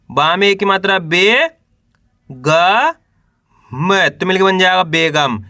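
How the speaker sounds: drawn-out letters with pauses between; teacher's spelling drill, held rising syllables; syllable-by-syllable sounding out. Shown as a demonstration. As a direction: sound out each letter for beginners to repeat. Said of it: "एक अक्षर का उच्चारण करके इनको पढ़ रहा हूँ".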